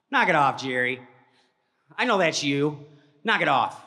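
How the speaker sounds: retold yell. Yelling at cousin in bushes.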